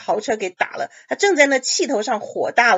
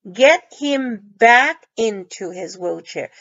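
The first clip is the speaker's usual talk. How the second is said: slow model reading; 4 dB louder, slower than usual. Shown as a demonstration. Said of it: "麻烦你帮忙我".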